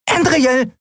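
very high little squeak; piping tiny voice. A narrator's reading. Tiny Nelen wakes Endriel with a high piping call. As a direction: pipe up like a tiny winged creature. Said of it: "piepste eine Stimme".

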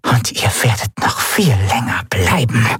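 eerie unvoiced whisper; a dying pirate's menacing whisper from the corner. A narrator's reading. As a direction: breathe it from the dark corner. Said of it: "wisperte eine Stimme".

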